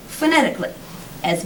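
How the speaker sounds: expressive, measured book reading with lifted phrases; storyteller's lively, deliberate delivery; story reading aloud. A narrator's reading. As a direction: read the excerpt aloud to an audience, clearly phrased. Reads story excerpt aloud.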